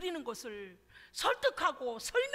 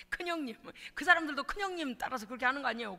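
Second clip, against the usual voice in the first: ordinary delivery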